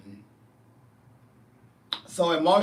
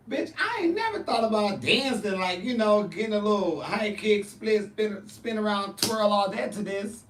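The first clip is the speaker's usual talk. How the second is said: amazed inner voice; 5 semitones higher than usual. Retold or imitated. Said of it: "'Cause I'm thinking".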